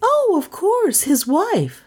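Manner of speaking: high, slow swooping realization; high-pitched hasty agreement, drawn out; startled recovery. A narrator's reading. Startled heroine covers up.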